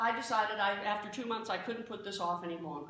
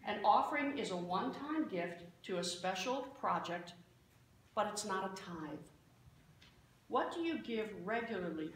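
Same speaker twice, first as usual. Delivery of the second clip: calm; 4 dB quieter than usual. Retold or imitated. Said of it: "looked at me very calmly and said".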